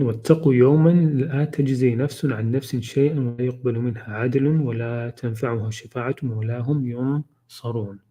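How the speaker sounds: quick, fluent Arabic recitation; Quran recitation. Acted. Teacher recites the verse to the class, fluent and quick. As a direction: reel off the verse in a recited cadence.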